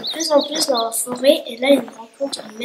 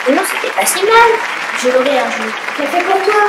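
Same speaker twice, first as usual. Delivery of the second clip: bad acting; 3 semitones higher, 7 dB louder than usual. Contestant reacts loudly.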